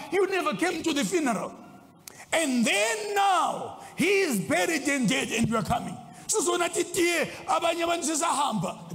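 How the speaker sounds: accusing, pitch climbing high; mock angry reproach. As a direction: act out bereaved siblings scolding a latecomer. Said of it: "We are very mad with you".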